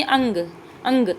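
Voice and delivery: अंग with a nasal hum; nasal demonstration. Shown as a demonstration. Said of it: "मुंह से ज़्यादा नाक से आवाज़".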